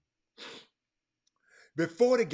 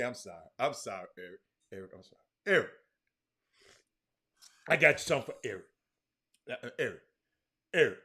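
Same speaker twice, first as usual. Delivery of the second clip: drops his voice way down, softer and lower; quiet apology; 10 semitones lower, 6 dB quieter, much faster than usual. Real, not acted. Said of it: "What you hollering about today?".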